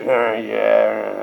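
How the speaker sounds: low, soft sheepish admission; sheepish yeah. Retold or imitated. Pastor voicing a child caught with cookies, sheepish. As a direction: mumble it like a caught kid. Caught kid admits guilt.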